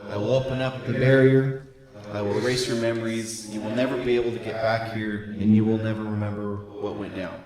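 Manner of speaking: calm, stately sorceress. Acted. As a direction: speak as a grave sorceress. GM voices Helena.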